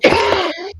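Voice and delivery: imitated banging on a door; imitated door knocking. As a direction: make a loud knocking noise with the mouth. Go up there and go.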